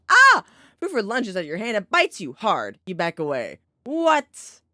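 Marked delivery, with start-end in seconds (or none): 0.1-0.4 sudden very high, loud shriek; startled scream. Real, not acted. Streamer shrieking when the cat bites. 3.8-4.6 high, loud incredulous cry; disbelieving yelp at the bite; shocked what. Real, not acted. Streamer crying out in disbelief at the bite.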